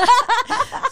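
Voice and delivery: bright burst of real laughter; high real laugh; loud high laugh. Real, not acted. Laughing at voice teasing.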